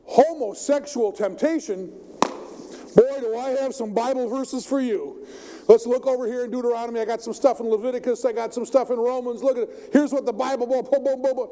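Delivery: hypothetical preacher. Pretend. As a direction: rattle off verses like a proof-texter. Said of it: "I could say".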